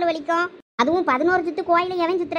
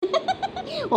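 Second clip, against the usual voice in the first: high-pitched, soft giggle; a burst of high, light laughter; giggling laugh; 11 semitones higher, 5 dB quieter than usual. Acted. Friend amused at the angry girlfriend news, giggling. Friend mocks mother's prediction.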